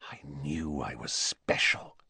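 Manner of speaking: hushed, unvoiced self-talk; whispered. A narrator's reading. Boy realising he was always special, whispered. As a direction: keep whispering, as if only to yourself. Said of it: "he whispered to his own quivering fingers".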